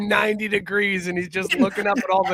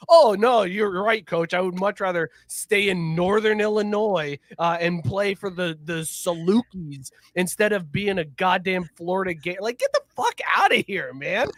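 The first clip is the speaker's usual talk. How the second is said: sarcastic mock agreement. Sarcastic player mocking coach.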